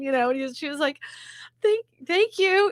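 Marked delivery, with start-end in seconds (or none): 1.6-2.7 holding back tears. Retold or imitated. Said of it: "You could just tell she wanted to cry".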